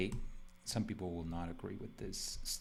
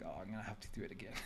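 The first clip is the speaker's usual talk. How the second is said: retold panic; 8 dB quieter, much faster than usual. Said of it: "I was like".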